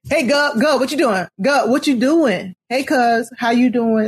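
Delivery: imitating cousins' Southern greetings; Southern accent. Cousins down South greeting each other, imitated Southern accent. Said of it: "my cousins, uh, they would always be like".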